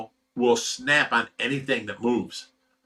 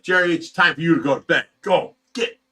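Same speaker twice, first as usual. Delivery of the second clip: higher, louder, quick bossy command; mock scolding order; 4 semitones higher, 4 dB louder than usual. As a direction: playfully shoo someone off to bed. Acting out sending Jerry to bed.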